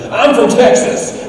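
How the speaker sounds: loud, high, slow brag of a Texan; mock Texan yell. Tourist yelling at the airport crowd, loud mock brag. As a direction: boom it out like a proud tourist. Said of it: "he's telling everybody".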